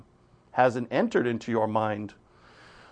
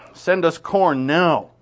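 slow amused quote; 4 semitones higher, 4 dB louder, slower than usual. Real, not acted. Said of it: "I thought that was interesting".

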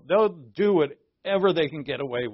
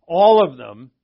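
laughing emphasis; 14 dB louder than usual. Real, not acted. Laughs while stressing point.

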